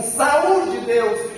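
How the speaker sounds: mock cry to heaven. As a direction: cry it upward, short of a real shout. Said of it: "olhe para o céu e grita assim".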